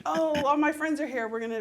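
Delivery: mock giddy kid, high and loud; excited kid chatter. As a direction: burst in like a kid spotting friends. Mimicking rowdy kids in lobby.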